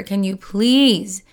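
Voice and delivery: mild mock yell of a tired, fed-up mother; mom yells. Tired mother snapping at her singing daughter, mild mock yell. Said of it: "the mom just yells up at her".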